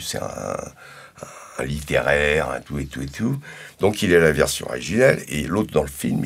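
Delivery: ordinary talk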